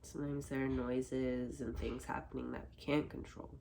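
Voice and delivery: unhurried meditation voice with long pauses; calm, spacious guiding voice; guided meditation. Acted. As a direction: quietly guide listeners with their eyes closed. Leads meditation after eyes are closed.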